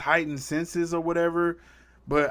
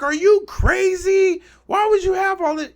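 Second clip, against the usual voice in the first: high, loud incredulous mock outburst; condescending; 5 dB louder than usual. Spider-Man imitated talking down to Frank, condescending. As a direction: imitate a talking-down scolding, pitched way up. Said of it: "It's so condescending".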